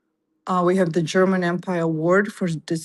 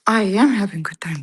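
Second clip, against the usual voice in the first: whispering. Real, not acted. Aside to someone off camera.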